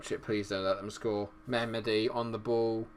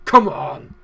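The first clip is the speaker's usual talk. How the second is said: a loud roar of celebration; triumphant shout; 4 semitones higher, 16 dB louder than usual. Real, not acted. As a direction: punch the air and bellow it. Celebrating the goal.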